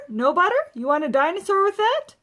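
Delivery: loud, high vendor's call; popcorn man shouting. A narrator's reading. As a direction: hawk it like a concession seller. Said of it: "popcorn man shouting".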